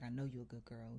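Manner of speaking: quiet, measured appeal; retold calming voice. Imitating the landlord calming her down, soft and steady.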